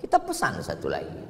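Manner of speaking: mock-kindly "no worries" to a friend; gentle with a friend. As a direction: play it soothing and breezy to a buddy. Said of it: "Dengan teman lembut".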